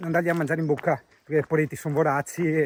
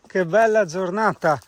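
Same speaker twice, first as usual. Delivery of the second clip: very slow and savouring; 3 semitones higher, 4 dB louder, much slower than usual. Real, not acted. Savouring the view.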